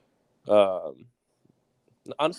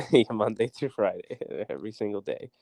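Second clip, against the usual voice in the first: chuckling through the words; laughing. Real, not acted. Laughing at co-host's joke.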